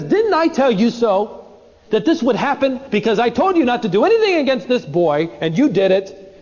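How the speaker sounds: pointing the finger at his brothers; mildly smug reproach; self-righteous. Retold or imitated. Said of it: "self-righteous".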